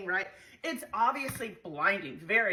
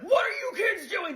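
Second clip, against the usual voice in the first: authoritative voice; 11 semitones higher than usual. Retold or imitated. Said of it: "a really authoritative ... voice".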